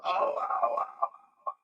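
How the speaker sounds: breathless pained ow; winded groans. Retold or imitated. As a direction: groan with the wind knocked out. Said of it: "just yelling".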